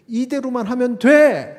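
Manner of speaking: high, loud assurance; emphatic urging. Acted. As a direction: urge it loudly as God to Moses. Voices God urging Moses on.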